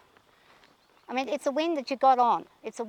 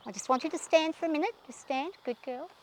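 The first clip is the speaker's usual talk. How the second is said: soothing the horse; 4 dB quieter than usual. Real, not acted. Rider quietly soothing her mare to stand still, tender. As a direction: settle her gently.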